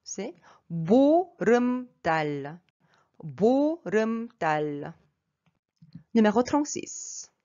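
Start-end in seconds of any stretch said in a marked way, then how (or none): 0.7-4.9 careful syllable-by-syllable 보름달; pronunciation demo. Shown as a demonstration. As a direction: stretch 보름달, roll the R, end on L. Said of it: "Donc, la prononciation".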